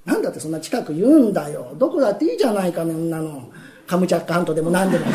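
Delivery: 声を低く落とした店の主人; 呆れた旦那らしく低く; low-voiced master. 店の主人の声. (喜助に呆れる店の主人、低い声で)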